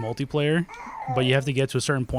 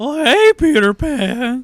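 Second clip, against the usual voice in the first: squealed high, loud and slow; 12 semitones higher, 11 dB louder than usual. Mimicking how a kid from Peter Pan talks: imitating the Lost Boys kid from Peter Pan. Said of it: "The kid that talks like".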